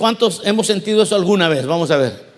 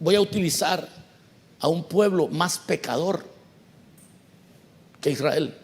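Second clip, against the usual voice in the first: voice of God; 4 semitones lower, 5 dB quieter than usual. Retold or imitated. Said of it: "Dios le responde y le dice".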